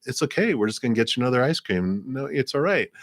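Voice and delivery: quick reassuring grandfather. Retold or imitated. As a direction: brush it off quickly like a patient grandpa. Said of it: "And they're like".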